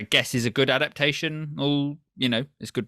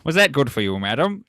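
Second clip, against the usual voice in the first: a touch louder, mock gentleman courtesy; polite posh lover; 3 semitones higher, 4 dB louder, faster than usual. Co-host mocks a prim British lover, lightly voiced. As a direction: ask like a prim gent after sex. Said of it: "very British".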